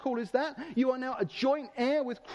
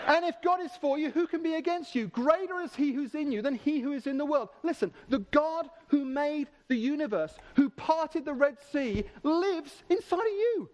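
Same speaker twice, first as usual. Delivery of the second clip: fervent proclamation, pitched up; impassioned, climbing higher at the end; rousing preaching; 3 semitones higher than usual. Real, not acted. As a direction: build to a ringing climax for the congregation. Preacher building to a climax.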